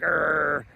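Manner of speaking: imitated kid's growl; frustrated growl. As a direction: growl like an exasperated little boy. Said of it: "And he's like".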